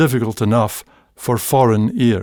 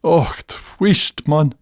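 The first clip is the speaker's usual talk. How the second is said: Scots hush; 3 semitones higher than usual. Retold or imitated. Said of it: "I will still think to myself".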